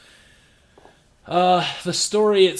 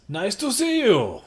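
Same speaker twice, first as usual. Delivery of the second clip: lightly attempted Arnold Schwarzenegger accent; higher-pitched, poorly faked Austrian accent; bad Arnold accent; 5 semitones higher than usual. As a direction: have a weak go at an Austrian accent. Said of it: "That was the worst accent ever".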